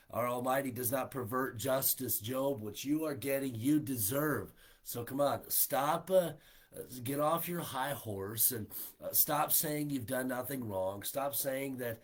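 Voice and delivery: forceful acted scolding; insistent telling-off; accusing rebuke. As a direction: lay the blame on him firmly. Acted accusation of Job by Bildad.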